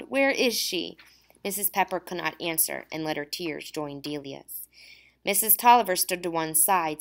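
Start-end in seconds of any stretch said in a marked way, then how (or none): 0.0-1.0 high, tearful plea; sobbing. A narrator's reading. Girl asking through tears where her friend is, high. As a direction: cry out the question through tears. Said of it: "Delia sobbed".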